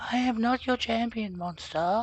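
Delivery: very high, put-on woman's voice. Repeating a voice-acted line, now trying it in a female voice. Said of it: "I have to do it in a female".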